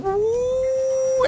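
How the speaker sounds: high, sustained fan whine; fan whoosh. Retold or imitated. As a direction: imitate a fan spinning up with a high woo. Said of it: "this fan kicks in going".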